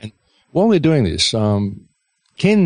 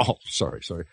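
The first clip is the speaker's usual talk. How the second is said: mild retold apology; 2 semitones lower, 10 dB quieter than usual. Hamas man apologizing over the gun on the back seat, softly imitated. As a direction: quote a quick apology, dropping the voice. Acts out the guard's quick apology.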